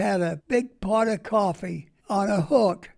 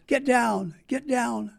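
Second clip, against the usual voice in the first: higher pitched urgent mild mock yell; retold holler; 5 semitones higher than usual. A lady hollers at soldiers to get down, mock yell. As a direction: shout them down off the haystack, imitating. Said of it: "hollering at us".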